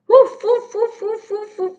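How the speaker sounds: high-pitched pretend dog barks; quick high woofs, first one loud; dog woofing. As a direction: woof like a little dog, fading off. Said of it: "Look at the dog".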